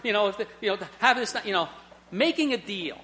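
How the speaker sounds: put-on a boy in trouble begging God for everything back; desperate pleading prayer. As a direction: plead with God, making a deal. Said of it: "in there saying".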